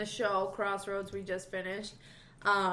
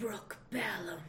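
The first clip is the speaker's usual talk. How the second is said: theatrical, dramatic, odd-sounding, strange, soft voice; 8 dB quieter than usual. Retelling how the listener's father told someone his name, imitating a dramatic strange voice. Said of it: "dramatically turns to him and says".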